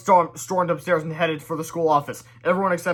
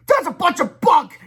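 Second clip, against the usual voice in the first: very high, slow, loud scoff; high slow yelled scoff; yelling; 13 semitones higher, 10 dB louder, slower than usual. Acted. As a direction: yell in disbelief. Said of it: "yelled Melvin".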